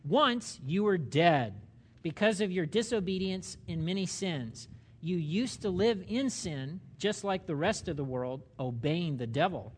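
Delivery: slow, measured scripture reading. Real, not acted. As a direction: read it out slowly so listeners can follow. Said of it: "I'm reading this slowly".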